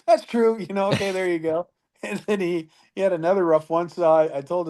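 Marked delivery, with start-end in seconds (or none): 0.1-1.7 high, lightly voiced grudging concession; grudging agreement. Rider conceding the point, higher grudging voice. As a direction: give in with a half laugh. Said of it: "He goes".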